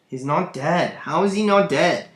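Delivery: understated indignant complaint; annoyed. Acted. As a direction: protest with a touch of annoyance. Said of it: "I feel like he's really annoyed".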